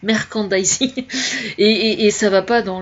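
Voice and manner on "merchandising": merchandising with a hard k and rising end; trying out pronunciation. Real, not acted. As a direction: repeat merchandising as "mer-kan-da-ee-zee", lifting the end. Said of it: "comment on dit".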